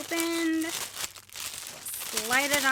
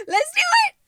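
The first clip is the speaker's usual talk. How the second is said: high laughing let's do it; 6 dB louder than usual. Real, not acted. Giggling at her own flubs, laughing and high. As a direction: giggle it out after the flub. Laughing after flubbed take.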